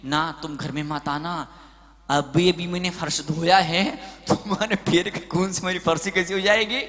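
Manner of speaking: a hint of a wife quietly refusing her husband; wife's refusal. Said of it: "पत्नी बोलती है".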